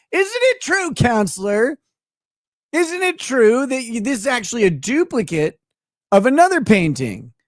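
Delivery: lightly played courtroom cross-examiner; a hint of grilling a witness, starting high; mock lawyer. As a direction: play at cornering someone on the stand.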